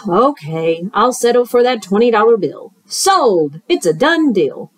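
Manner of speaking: lightly voiced smooth-talking fox; sly fox. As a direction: coax him like a friendly huckster. Fox's voice.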